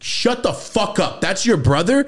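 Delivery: mock astonished; shocked disbelief. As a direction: stretch it out in amazement. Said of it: "I'm like".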